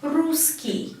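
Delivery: "русский" as RU-skiy with a clear U; U vowel. Shown as a demonstration. Teacher pointing at the spelling, "русский" with clear U. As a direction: sound the stressed "ру" of "русский". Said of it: "we have U here".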